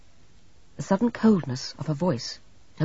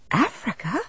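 blank echo; 7 semitones higher than usual. A narrator's reading. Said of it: "Maisie echoed the word blankly".

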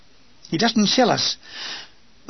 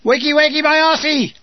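put-on higher, louder cheeky baby-talk insult; mock-rude retort; 7 semitones higher, 4 dB louder than usual. Woken at dawn, snapping back at the caller in higher mock fury. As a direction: fling the nonsense back at him, indignant. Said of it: "I say in clear language".

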